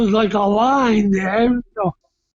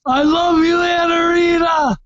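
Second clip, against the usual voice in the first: loving shout-out; 5 semitones higher than usual. Real, not acted. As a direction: call it out to your wife. Signs off with message to wife.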